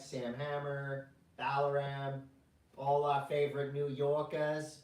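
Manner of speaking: mock New York accent; thick New Yorker drawl. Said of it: "Is that a New York accent or a Boston accent?".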